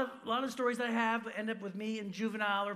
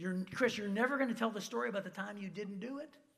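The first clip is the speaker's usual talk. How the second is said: plain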